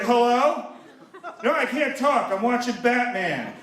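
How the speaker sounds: oblivious loud talker. Retold or imitated. Moviegoer taking a call mid-film, imitated oblivious loudness. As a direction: answer as if nobody else were there. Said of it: "talking like nobody else is in the theater".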